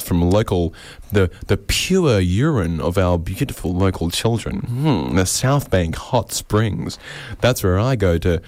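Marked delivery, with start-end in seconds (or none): 5.2-7.0 mock luxury. Mock spa advert.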